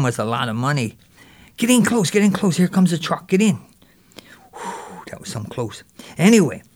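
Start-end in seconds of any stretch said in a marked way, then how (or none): 1.6-3.6 urgent call. Acted. Hiding from the truck. 4.5-5.0 breathy relieved whisper; whispered sigh of relief; whispered whew of relief. Acted. Relief after hiding.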